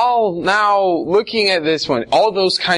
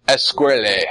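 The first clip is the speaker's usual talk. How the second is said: put-on Spanish accent; 3 semitones lower than usual. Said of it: "They say, like".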